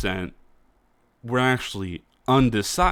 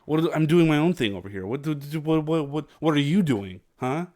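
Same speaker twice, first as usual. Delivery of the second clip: higher, rattled, defensive outburst; mock freak-out; 5 semitones higher than usual. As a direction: play a caught-out person panicking. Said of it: "And they freak out".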